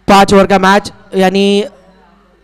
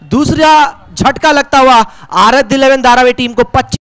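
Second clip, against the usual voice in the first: excited commentary; 5 semitones higher than usual. Real, not acted. Wicket falls, catch taken.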